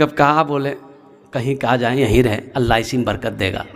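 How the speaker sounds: low, subdued giving-in; meek resignation. Acted. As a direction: back down meekly in a low voice. Refused imam gives in meekly. (दबी, नीची आवाज़ में हार मानना)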